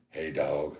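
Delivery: lightly voiced dog talk; calling the dog over for a treat; a hint of a pet-owner voice. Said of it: "I always say".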